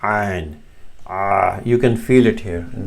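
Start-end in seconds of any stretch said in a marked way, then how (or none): 0.0-0.6 Ain sounded from the middle of the throat; throat letter demo. Shown as a demonstration. Teacher showing learners the Arabic letter, Ain from mid-throat. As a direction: say Ain using the throat muscles. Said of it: "from the middle of the throat".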